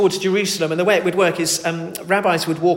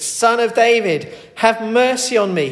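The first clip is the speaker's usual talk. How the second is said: desperate cry; 6 semitones higher, 6 dB louder than usual. Retold or imitated. Blind man cries out desperately to Jesus over the crowd. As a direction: cry out as if this is the only chance. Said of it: "crying as loudly as he could".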